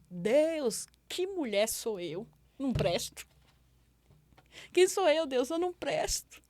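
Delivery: reliving a desperate plea to God, climbing high; anguished prayer. Retold or imitated. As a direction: plead with God, rising into a high, loud cry. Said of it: "falando com Deus desse jeito". (súplica angustiada, voz subindo)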